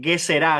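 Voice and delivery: Gezerá with the stress on its last syllable; stress on final A. Shown as a demonstration. Teacher giving the class a Hebrew term, Gezerá stressed on the final á. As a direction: say Gezerá, leaning on the closing á. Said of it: "con Z y tilde en la A".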